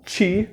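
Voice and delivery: the syllable "ti" said alone, slowly and clearly. Shown as a demonstration. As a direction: isolate "ti" as the first syllable of tiro. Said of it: "Pronunciando esta palavra devagar". (sílaba "ti" dita isolada e devagar)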